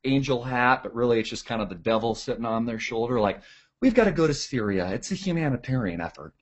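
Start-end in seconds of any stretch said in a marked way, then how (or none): 3.8-6.3 soft put-on innocence; hushed fake-saintly pitch; mock angelic. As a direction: play the little angel, quietly. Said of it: "have a little angel, angel hat".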